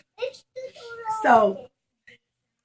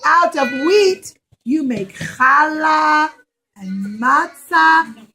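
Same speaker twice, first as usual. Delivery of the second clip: a louder, slow tearful plea; crying fig tree; 2 semitones higher, 5 dB louder, slower than usual. Acted. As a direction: sob out the complaint. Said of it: "the fig tree started to cry".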